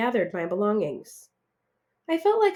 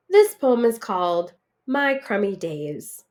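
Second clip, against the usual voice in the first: voice cracking; 3 dB louder than usual. Acted. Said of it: "my voice cracking".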